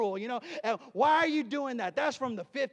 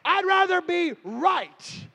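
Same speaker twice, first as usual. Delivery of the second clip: slow, loud, higher defiance; defiant shout; 7 semitones higher, 10 dB louder, slower than usual. Real, not acted. Preacher answering a critic, slow defiant shout. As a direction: hammer it home slowly.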